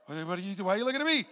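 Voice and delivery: mock aggressive. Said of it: "seen some of y'all get aggressive".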